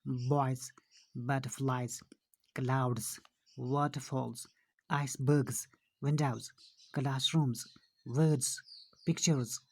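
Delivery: word-by-word list, each plural like बॉयज and क्लाउड्स ending in voiced Z; final Z sound. Shown as a demonstration. Teacher drilling pupils on end sounds, voiced Z ending बॉयज to पिक्चर्स. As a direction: separate falling words, Z closing बॉयज through पिक्चर्स. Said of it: "यहाँ पे एंड sound ज है".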